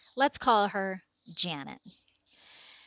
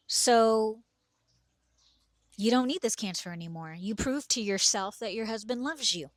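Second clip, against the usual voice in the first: curt and direct; 2 semitones higher than usual. Retold or imitated. Retelling how she bluntly told her sick friend, curt and direct. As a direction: hand down the verdict with no softening. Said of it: "very direct, very curt to her".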